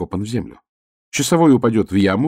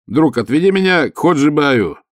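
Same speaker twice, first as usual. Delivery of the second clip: high, loud call; shout; 6 semitones higher, 6 dB louder than usual. Acted. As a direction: yell for the guard. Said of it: "крикнул я".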